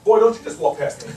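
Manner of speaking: put-on sharp scolding older woman; scolding church lady. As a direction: call him back sternly.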